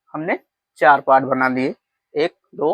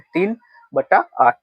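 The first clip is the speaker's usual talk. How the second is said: slow model reading; 3 semitones higher than usual. Shown as a demonstration. Teacher answering how to read the fraction, slowly. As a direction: read तीन बटा आठ slowly, with a slightly raised voice. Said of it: "इसको हम कैसे पढ़ेंगे".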